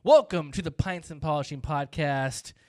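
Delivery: loud, hammed-up podcast host; nerdy white-guy announcer parody; Marty impersonation. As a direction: announce the show in booming caricature. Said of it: "I'm gonna do a Marty impersonation".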